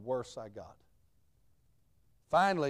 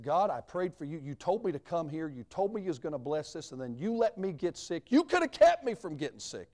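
angry prayer, building; 3 semitones higher than usual. Retold or imitated. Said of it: "I was angry".

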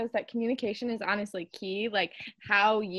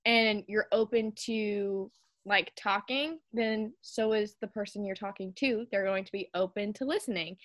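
calmer tone; 5 dB quieter than usual. Shown as a demonstration. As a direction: ease into it gently, softly. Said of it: "in a, like, calmer tone".

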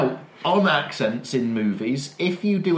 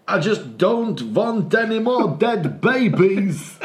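slow, higher mock German accent with a laugh; 8 semitones higher, 4 dB louder, slower than usual. Telling a friend what the policeman said, in mock German accent. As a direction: lay on a jokey German accent. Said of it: "that is clearly a German accent".

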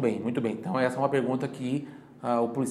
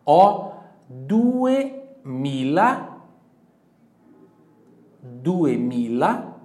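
very slow and louder, "duemila" stretched out; slow model phrase; 6 dB louder, much slower than usual. Shown as a demonstration. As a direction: draw out "Ó, duemila" for the class. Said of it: "você vai falar".

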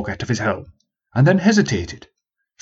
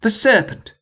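posh prince voice; 11 semitones higher than usual. Acted. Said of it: "he cried".

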